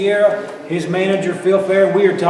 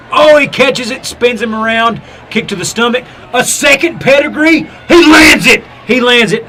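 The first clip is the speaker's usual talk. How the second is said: excited wrestling commentator; 4 dB louder than usual. Acted. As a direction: shout the finisher as it lands. Live match play-by-play.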